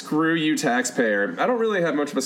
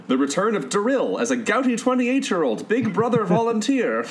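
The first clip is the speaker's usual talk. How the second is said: Daryl accent impression; 7 semitones higher than usual. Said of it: "Oh, that is such a good accent".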